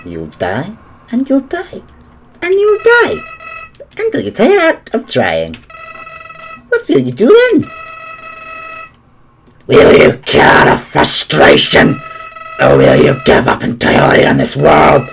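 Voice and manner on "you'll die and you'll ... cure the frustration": menacing, building higher flower voice; Flowey impression. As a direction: taunt with rising menace. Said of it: "my flowery impression".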